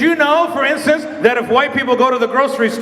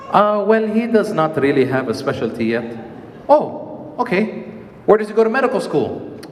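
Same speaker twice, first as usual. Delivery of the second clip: Arab mom voice; 8 semitones lower, 3 dB quieter than usual. Retold or imitated.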